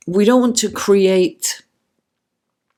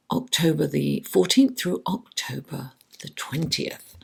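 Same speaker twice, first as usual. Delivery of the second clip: whispered question; 5 dB quieter than usual. Real, not acted. Asking the cards a question.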